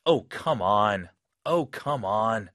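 fed-up groan; frustrated. Shown as a demonstration. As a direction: let the irritation show. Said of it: "느껴지시죠?".

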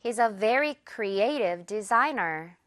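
This will create hundreds of jobs, word by word, very slowly; slow teaching read; very slow model. Shown as a demonstration. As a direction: spell the sentence out slowly for learners. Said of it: "One more time".

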